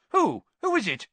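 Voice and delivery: high, urgent questioning; loud, astonished demand; disbelieving shout. A narrator's reading. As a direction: demand it incredulously. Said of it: "sounding highly disbelieving".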